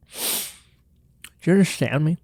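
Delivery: slow, drawn-out mock warning; mock stern question. Host lecturing viewers on chocolate, slow and mock stern. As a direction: lean in slowly and make them promise.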